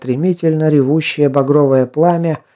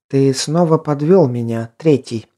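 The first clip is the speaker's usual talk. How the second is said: icy voice. Acted. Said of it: "ледяным голосом произнесла она".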